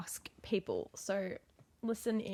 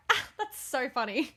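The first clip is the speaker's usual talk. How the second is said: mock laughing; 3 semitones higher than usual. Friend reacting to someone's bad news, mock laughing. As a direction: pretend amusement breaking into laughter. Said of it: "have to laugh every single time".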